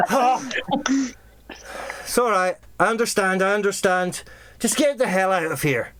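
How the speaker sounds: mildly exasperated acted boss; boss relenting. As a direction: wave off the henchman's excuse. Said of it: "And it's like".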